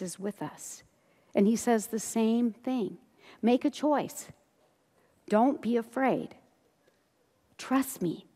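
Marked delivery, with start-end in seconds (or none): 5.3-8.3 slow, hushed comfort; gentle reassurance. Acted. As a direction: reassure softly and unhurriedly. Voicing Jesus reassuring the listeners.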